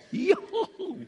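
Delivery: high yelp at the hot food; retold yelp. Preacher burning his hand on hot food, high yelp. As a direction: squeal as if burnt. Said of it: "så jag skrek till".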